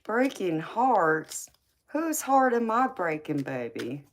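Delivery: mock surprise. Real, not acted. Streamer reacts to chat comment.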